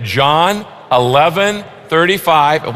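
slow, deliberate verse recital; slow recitation for all to repeat. Shown as a demonstration. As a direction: say it slowly and clearly, word by word. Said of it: "Let's say it".

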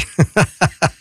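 a short real laugh. Real, not acted. Host laughs at the joke.

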